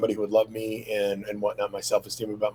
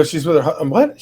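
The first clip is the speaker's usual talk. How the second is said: retold shock; 5 semitones higher, 8 dB louder than usual. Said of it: "So I go".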